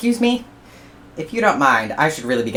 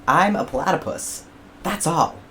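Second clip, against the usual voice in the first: rising louder, higher lecture; platypus rant; 5 semitones higher, 5 dB louder than usual. Acted. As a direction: tell him off point by point.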